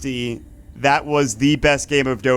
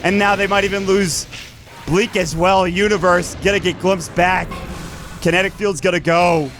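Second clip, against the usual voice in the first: play-by-play; 3 semitones higher than usual. Acted. Live Dota game cast.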